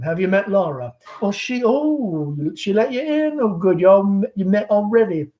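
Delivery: lightly voiced chatty Southern belle mother; Southern mother hostess. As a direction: gush over the guest like a fading belle. Amanda chatting with the caller.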